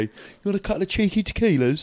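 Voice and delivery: lightly voiced cockney geezer chat-up line; a hint of Danny Dyer offering drinks; Danny Dyer impression. Mate mimicking Danny Dyer chatting up a barmaid. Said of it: "Danny Dyer in Football Factory".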